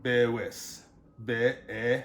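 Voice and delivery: BEWIS, then Be-e broken apart; syllable-by-syllable Bewis, then Be-e; sounded-out E. Shown as a demonstration. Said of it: "that, uh, E sound".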